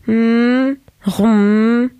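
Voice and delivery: drawn-out humming mumble; inarticulate grunts. A narrator's reading. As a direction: hum noncommittally into the phone. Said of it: "quelques borborigmes du genre". (borborygmes, hum traînants)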